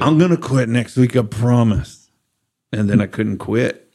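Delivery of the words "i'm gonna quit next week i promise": louder, pleading vow; drunken promise. Retold or imitated. Drunk man promising God to quit, louder. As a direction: promise it like a drunk who means it. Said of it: "be like".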